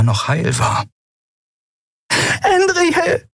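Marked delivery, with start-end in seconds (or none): 2.4-3.3 high calling cry of a name. A narrator's reading. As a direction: call her name across the room. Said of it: "hörte sie Nelen rufen".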